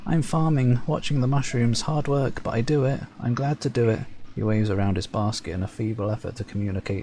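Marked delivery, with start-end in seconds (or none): 0.1-4.0 lightly voiced meek worker, feigning enthusiasm; a servant claiming he's glad to work; timid Servile farmer. Game master voicing a meek Servile farmer, lightly raised.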